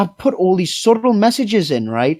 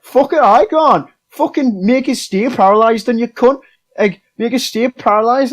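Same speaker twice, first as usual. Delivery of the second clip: higher, indignant mock dare; retold angry defiance; 5 semitones higher than usual. Player mimicking someone daring the game master, mock furious. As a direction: imitate a fed-up player giving up.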